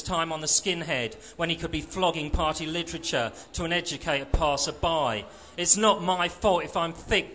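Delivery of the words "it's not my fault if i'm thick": a slightly louder outburst, defensive; exploding. Acted. Skinhead snapping back at the Marxist, a mild outburst. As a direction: blurt it out, stung. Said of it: "Johnny exploded".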